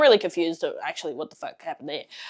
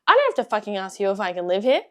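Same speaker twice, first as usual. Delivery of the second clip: echoing her words, louder and faster, stunned; incredulous echo; 5 dB louder, faster than usual. Retold or imitated. Repeating the housemate's words back in loud disbelief. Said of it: "Eh? What?".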